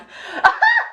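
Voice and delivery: high burst of laughter; can't hold back a loud laugh; squealing laugh of disbelief; real laugh. Real, not acted. Laughing at ex's text.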